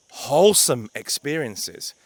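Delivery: "wholesome experiences" slow, each word weighted; slow emphasis on "wholesome experiences"; stress on wholesome. Shown as a demonstration. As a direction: lean on "wholesome" slowly and firmly. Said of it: "I emphasize the word wholesome".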